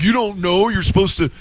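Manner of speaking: a snide, mocking put-on voice; mocking commenter. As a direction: parrot the trolls with contempt. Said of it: "making fun of me".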